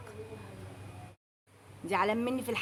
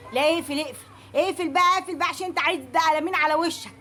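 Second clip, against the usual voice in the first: fed-up telling off; 2 semitones higher than usual. Acted. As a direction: cut him off, done with him. Telling courier to hang up.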